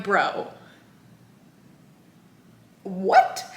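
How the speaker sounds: baffled squeak of disbelief. Retold or imitated. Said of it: "And I'm like".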